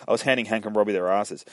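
quick, run-together delivery of the line; fluent retake. Acted. Alice telling the sheriff, quick and fluent. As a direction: rattle off "handing Hank and Robbie" smoothly.

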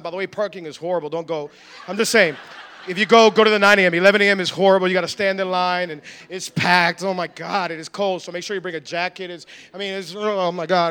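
low-pitched, griping discouragement; complaining invitation. Acted. Complainer inviting a coworker to church, griping throughout. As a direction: grumble through a hammed-up invite. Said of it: "somebody that all they do is complain".

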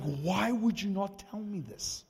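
high, loud, slow incredulous demand; imitated upset protest. Friend demands explanation from preacher, imitated upset protest. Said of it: "He was, like, legitimately upset".

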